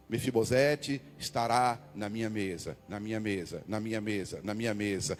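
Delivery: fading repetition. Shown as a demonstration. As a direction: let the words fade into a hush. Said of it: "aí ele começa, ó". ("na minha mesa" repetido, sumindo cada vez mais baixo)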